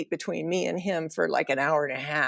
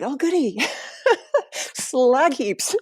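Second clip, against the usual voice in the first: sarcastic; 8 semitones higher, slower than usual. Retold or imitated. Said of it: "And I'm like".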